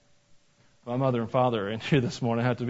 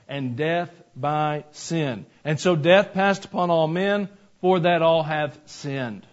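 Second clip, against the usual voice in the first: scripture reading. Acted. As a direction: read the verses with weight. Reads scripture aloud.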